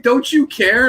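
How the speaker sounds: high, loud exasperated plea; mock exasperated shout. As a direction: imitate friend's outraged question. Retells Joel, mad, asking him.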